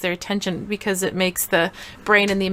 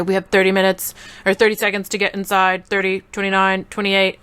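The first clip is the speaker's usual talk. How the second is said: lightly done robot countdown; a hint of robot monotone. Shown as a demonstration. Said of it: "do a robot voice".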